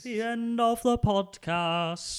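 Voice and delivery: slow, high rock-star croon; drawn-out, high impression of a rock singer; a rock singer's voice. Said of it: "Bringing back the rock-singer voice".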